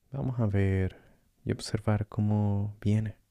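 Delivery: calm meditation guide with long pauses; guided meditation. Acted. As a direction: gently guide the listener through breathing, leaving space between phrases.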